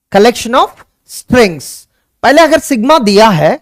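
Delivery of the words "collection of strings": very slow, word by word; slow dictation. Shown as a demonstration. Teacher to students, dictating slowly. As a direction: spell it out for notes.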